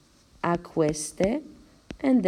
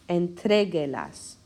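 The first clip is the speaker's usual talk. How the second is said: "Entreguelas" with TRE, third syllable from the end, stressed. Shown as a demonstration. Teacher counting syllables for students, stress on TRE in "Entreguelas". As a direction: punch TRE in "Entreguelas", falling away on "guelas". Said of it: "it's on the third one".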